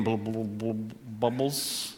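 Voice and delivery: stuttered underwater blub; bubbling imitation. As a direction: let the word burble into bubbles. Imitates singing turning to bubbles.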